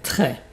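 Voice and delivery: très with a wide open è. Shown as a demonstration. Teacher corrects the vowel, open è in très. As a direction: drop the jaw on the è of très. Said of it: "la bouche est beaucoup plus ouverte".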